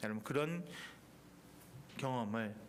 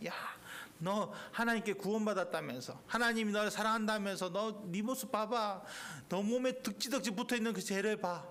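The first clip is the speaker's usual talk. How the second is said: devil's mockery; 4 semitones higher than usual. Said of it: "마귀도 얼마나 나를 조롱합니까".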